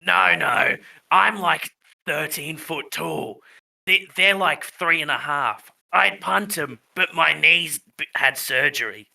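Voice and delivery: lightly put-on old tree voice; talking tree. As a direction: explain as a tree creature, slightly hammed-up.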